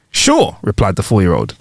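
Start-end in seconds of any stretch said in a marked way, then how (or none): 0.1-0.6 put-on high child voice. Four-year-old replies.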